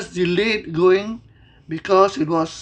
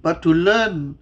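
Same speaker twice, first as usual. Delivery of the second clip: closing prayer. Acted. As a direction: pray it humbly, as a gentle personal plea.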